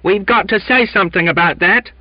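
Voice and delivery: high, loud heckle; screech. A narrator's reading. Sailor heckling from the rear, screeching protest. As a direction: screech it from the back of a crowd. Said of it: "screeched Donkin from the rear".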